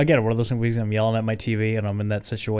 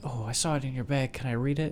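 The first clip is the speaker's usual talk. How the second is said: eager request; 3 semitones higher, 5 dB quieter than usual. Acted. Voicing the woman's eager request.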